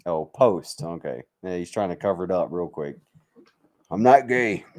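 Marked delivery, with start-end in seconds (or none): none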